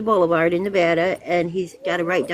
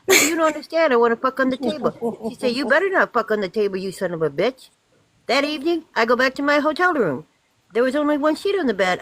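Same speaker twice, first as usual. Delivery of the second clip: put-on Italian accent; 2 semitones higher than usual. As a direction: joke told in a light mock Italian accent. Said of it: "I gotta change my Italian voice".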